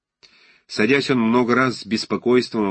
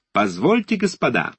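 calling out; 5 semitones higher than usual. Acted. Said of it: "закричал вдруг Тальман".

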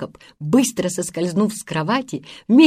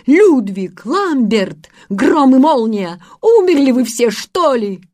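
loud, higher wake-up call; exasperated shouting; 5 semitones higher, 5 dB louder than usual. A narrator's reading. Peter yells at the sleeping boys, exasperated shout. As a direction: yell at them to get up. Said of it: "кричал Питер, не шевелясь".

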